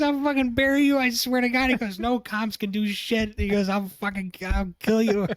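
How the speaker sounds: high, loud hammed-up rage, laughing through it; mock furious threat. Retelling dad threatening the guy, hammed-up high yell.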